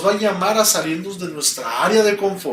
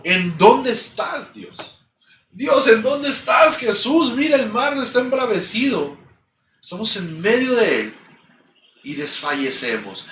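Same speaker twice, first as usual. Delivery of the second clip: anguished plea to God, pitched up; disciples crying out; 3 semitones higher than usual. Acted. Frightened disciples calling to an absent God, a pleading cry. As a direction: cry out to Jesus from the storm. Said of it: "debieron haber clamado y debieron haber dicho".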